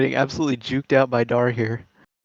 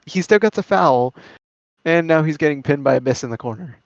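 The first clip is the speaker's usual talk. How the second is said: play-by-play commentary. Acted. Live match play-by-play.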